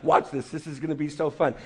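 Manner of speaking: playful God. Retold or imitated. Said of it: "And then God's like".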